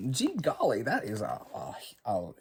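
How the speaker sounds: bad Southern accent. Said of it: "bad Southern accent".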